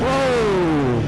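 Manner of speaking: surprised whoa. Real, not acted. Surprised by the bike's acceleration.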